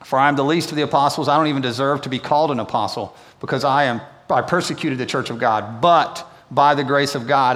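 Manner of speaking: brisk reading of a Bible passage; quick steady scripture read. Acted. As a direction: read the verses straight through, quickly. Reads the scripture passage aloud.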